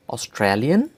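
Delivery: "Australian" in German, ending in 'li-en', rising; German-style "Australian", lifted at the end; German pronunciation. Shown as a demonstration. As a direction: say "Australian" as the German country name. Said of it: "names of countries with German accent".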